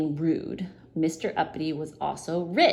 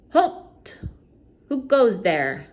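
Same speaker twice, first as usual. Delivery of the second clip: high loud challenge; sentry's cry; 6 semitones higher, 5 dB louder, slower than usual. Acted. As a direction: cry it out from the gate. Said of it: "cried the goblin sentry".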